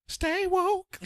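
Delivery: high, lightly crooned line; a hint of a smooth charmer; smooth suave voice. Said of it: "He came in like this".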